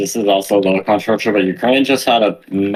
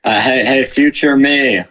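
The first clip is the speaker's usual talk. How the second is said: higher-pitched mock hail to someone absent; playful calling out; 5 semitones higher than usual. Podcaster asking his future self for approval, playful calling out. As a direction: call out brightly, pitched up, playfully.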